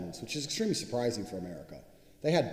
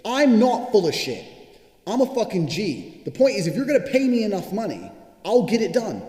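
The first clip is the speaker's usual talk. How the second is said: defiant loud rebuttal; 9 semitones higher, 9 dB louder than usual. Real, not acted. Rebuts people calling him a liar.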